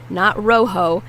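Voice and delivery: rojo with English gliding O's, like row-ho; wrong English O. Shown as a demonstration. Teacher showing the wrong English vowels. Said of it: "the O's are Spanish O's".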